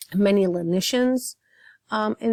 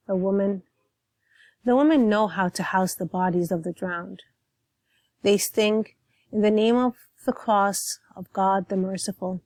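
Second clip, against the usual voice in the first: poem reading. Acted. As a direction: read the poem with weight, letting each line settle. Poem read aloud before commentary.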